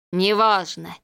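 cold, hollow voice of the dead; cold hissing layered whisper. A narrator's reading. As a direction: answer like a ghost. Drowned man answers.

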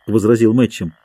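ordinary delivery

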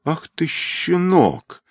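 high, drawn-out angry exclamation; slow, outraged threat to a child; enraged. A narrator's reading. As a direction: stretch it out in rising fury. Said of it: "взъярился мужчина".

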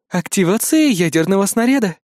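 a hint of a computer alert; cool alarm voice. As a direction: system warning, held level. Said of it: "предупредил прохладный женский голос".

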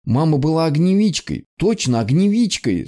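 a touch of tears, pushing back; tearful insistence. Acted. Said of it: "Снова заплакала Эмми".

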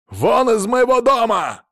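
furious husband yells at wife and dog; yelling. A narrator's reading. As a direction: bellow him out of the house. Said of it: "заорал он".

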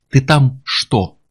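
very slow, measured question; ominous calm. A narrator's reading. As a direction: ask it calmly, word by word. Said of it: "голос звучал теперь очень спокойно". (зловеще спокойный вопрос)

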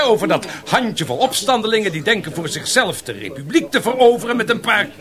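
high, laughing mockery of the rebels; scoffing through laughter; laughing scorn. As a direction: laugh the words out in contempt. Mocking rebels, laughing toast.

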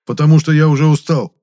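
high, loud tired outburst; exclaiming. A narrator's reading. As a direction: throw it out in complaint. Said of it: "воскликнул Моня".

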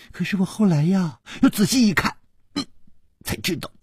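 put-on high, playful young page; mischievous boy puncturing a hope; storybook child servant, teasing. A narrator's reading.

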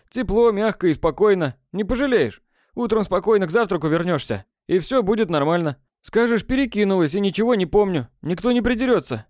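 a lightly voiced teasing boy selling the grave; mock coaxing. A narrator's reading. A boy mockingly coaxing a girl into a grave. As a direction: sweet-talk her, tongue in cheek. Nedomorf teases Henrietta.

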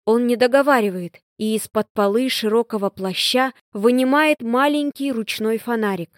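plain reading voice

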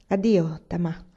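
a touch kinder goodbye; husband's mildly gentle goodbye to his wife; slightly gentler. Acted. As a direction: soften the farewell a little. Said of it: "disse con tono un po' più gentile".

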